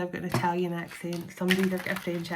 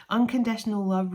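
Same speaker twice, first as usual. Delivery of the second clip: louder, proclaiming "Unconditional love"; emphatic readout; 2 semitones higher, 5 dB louder than usual. Real, not acted. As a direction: announce "Unconditional love" to the viewers with a lift. Reads out card keywords emphatically.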